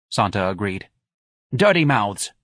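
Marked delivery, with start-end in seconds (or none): 1.5-2.3 indignant. Acted. Scornful agreement about gossiping neighbours.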